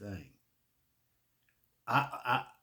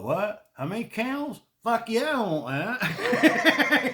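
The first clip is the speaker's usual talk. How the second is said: higher, louder, giddy dad with a laugh at the end; excited dad; 9 semitones higher, 7 dB louder, slower than usual. Retold or imitated. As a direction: play the thrilled father grabbing the deal. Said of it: "He was like".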